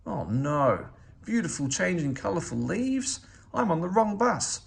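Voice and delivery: rising to a loud, high panicked yell. Acted. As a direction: build from dismay to a full shout to get off. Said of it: "yelled Oscar".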